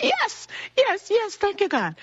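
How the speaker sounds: high, bursting thanks to God; overjoyed cry. Retold or imitated. Hearing her own name read out, she cries out high with joy. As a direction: let the joy burst out on every yes.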